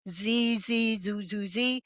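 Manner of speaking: imitated buzzy birdsong, zee notes held; buzzy warbler song. Shown as a demonstration. Birding teacher gives a warbler mnemonic, buzzy. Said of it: "give you the mnemonics".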